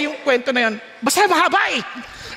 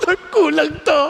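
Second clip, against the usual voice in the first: laughing. Retold or imitated. Laughing prayer about money.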